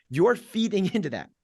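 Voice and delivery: ordinary talk, nothing marked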